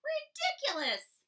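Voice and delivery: high, slow, scornful duck voice; quacking duck. Acted. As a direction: drag it out like a mocking duck. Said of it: "quacked the duck".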